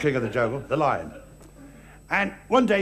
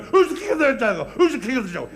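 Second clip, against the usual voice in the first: lion falling through air; 4 semitones higher than usual. Acted. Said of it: "up in the air coming down".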